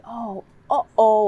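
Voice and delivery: hammed-up surprise for a toddler; big slow storybook uh-oh; exaggerated uh-oh. Shown as a demonstration. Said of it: "you could say".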